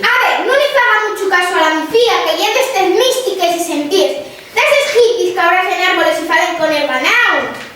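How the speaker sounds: loud shout cutting in. Acted. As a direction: bellow it over the others. Shouting interruption on live TV.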